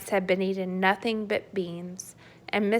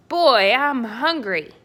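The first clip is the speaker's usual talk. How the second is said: louder booming giant; hungry giant; 4 semitones higher, 6 dB louder than usual. Acted. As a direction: rumble it like a starving giant. Giant announces hunger.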